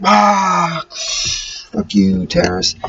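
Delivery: high, cocky hero taunt; a lightly hammed-up action-movie insult; mock tough taunt. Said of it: "I was like".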